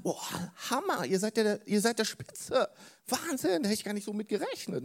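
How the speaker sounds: high, delighted boss gushing over the money; amazed boss. Acted. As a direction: play the boss bowled over with joy.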